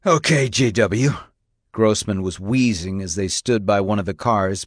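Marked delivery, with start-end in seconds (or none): 0.0-1.1 arresting agent. A narrator's reading. Grossman begins the arrest.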